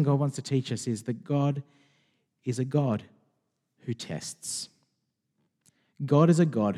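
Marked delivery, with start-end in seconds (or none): 3.8-4.7 preacher whispers the main point of the sermon; whispered point. Real, not acted. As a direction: whisper it, much softer. Key point dropped to whisper.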